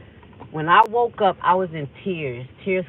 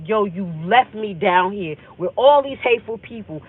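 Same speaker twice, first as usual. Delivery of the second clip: raised, indignant pleading; higher-pitched, accusing reproach; retold anger at God; 5 semitones higher, 4 dB louder than usual. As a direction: demand an answer from God, hurt and mad. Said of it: "I'm mad at God".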